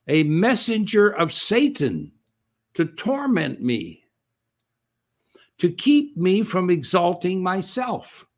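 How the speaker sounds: slow, solemn reading of scripture. Acted. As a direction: read the verse slowly, weighing each phrase.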